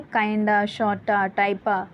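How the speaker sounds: kinda, sorta, typa with "of" shrunk to a; reduced forms. Shown as a demonstration. Teacher showing students spoken forms, reduced pronunciation. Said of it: "इन तीनों ही को पढ़ा जाता है".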